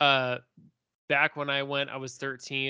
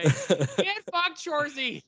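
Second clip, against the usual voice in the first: Letterkenny chirp in a much higher, squeaky put-on voice; Letterkenny trash talk. Chirping at Shorzy like a Letterkenny character, high and mocking. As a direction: squeal the insults like a cocky Letterkenny hick. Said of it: "best episode of Letterkenny".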